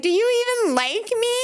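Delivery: high, pleading hurt question; hurt plea. Retold or imitated. Asking boyfriend on the couch, high and hurt. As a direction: ask if he likes you, pitched high. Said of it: "I was like".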